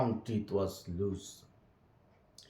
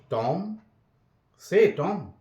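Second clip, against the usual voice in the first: calling out; 7 semitones higher, 5 dB louder, slower than usual. A narrator's reading. Sid tries waking Tom.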